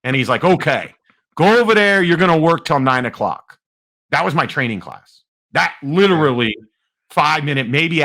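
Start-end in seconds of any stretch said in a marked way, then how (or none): 0.4-3.6 imitated New Jersey trainer, pitched up; lightly put-on New Jersey command; New Jersey accent. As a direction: give marching orders in New Jersey style. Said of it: "He's New Jersey, too".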